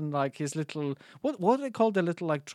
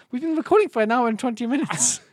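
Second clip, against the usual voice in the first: exaggerated exclamation; 8 semitones higher, 7 dB louder than usual. Real, not acted. Mock outrage at length.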